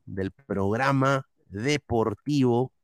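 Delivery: "programa deportivo" dictado despacio; dictado lento. Real, not acted. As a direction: stretch out "programa deportivo" as if typing it. Dicta el texto mientras escribe. ("programa deportivo", dictado lento)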